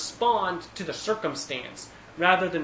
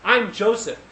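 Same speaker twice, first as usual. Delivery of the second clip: dramatic reveal; 5 semitones higher, 7 dB louder than usual. Retold or imitated. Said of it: "And he's like".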